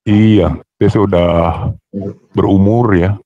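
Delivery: robotic voice filter; toy robot voice. Real, not acted. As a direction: speak through a robot effect. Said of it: "pakai ini aja, efek".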